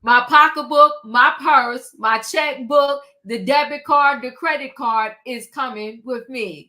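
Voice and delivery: loud, punched list of possessions; loud, defiant item-by-item roll call; emphatic listing. Acted. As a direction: hit each item hard, as a declaration. Acting out taking her money along.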